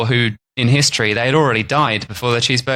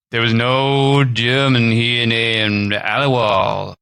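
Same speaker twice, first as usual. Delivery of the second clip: slow, lightly voiced old man; a hint of an old storyteller, slow; slow mild old man voice; much slower than usual. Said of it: "I'm just gonna do an old man voice".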